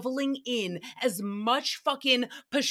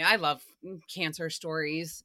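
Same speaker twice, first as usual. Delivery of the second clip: hushed sarcastic whisper; 6 semitones lower, 3 dB quieter than usual. Real, not acted. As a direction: whisper it like a bitter secret. Sarcastic aside after hilarious.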